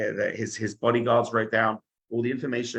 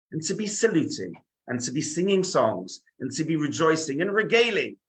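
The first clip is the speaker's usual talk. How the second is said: a raised, proclaiming announcer's voice; lightly acted school-assembly announcement; 5 semitones higher than usual. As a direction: announce it grandly to the whole school. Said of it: "there's an announcement in the school".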